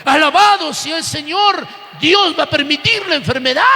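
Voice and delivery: forceful preacher driving each phrase home; full-force church sermon delivery; impassioned preaching. Real, not acted. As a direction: preach it with rising fervour, long stressed phrase endings.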